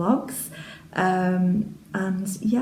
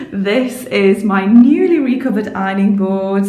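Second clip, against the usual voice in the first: laughing; 7 dB louder than usual. Real, not acted. Laughing while showing ironing board.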